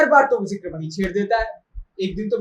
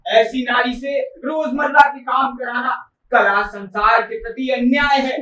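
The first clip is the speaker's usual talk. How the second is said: mounting mock declamation; quoted orator. Quoting an admirer's words to her, declaiming. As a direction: declaim it grandly, stretching the praise. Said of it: "अगर उसी के शब्दों में बताऊं".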